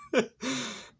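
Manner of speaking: short very high laugh; high squeal of laughter. Real, not acted. Vlogger amused at her own rant, high squeal of laughter.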